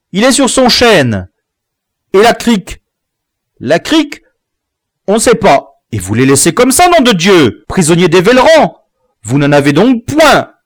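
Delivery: high, loud urgent retelling; breathless village boy reliving the charge; excited boy's report. Acted. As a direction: rush the news out, fired up.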